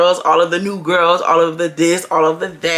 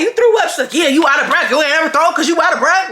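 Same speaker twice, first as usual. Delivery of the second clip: laughing mock; 7 semitones higher, faster than usual.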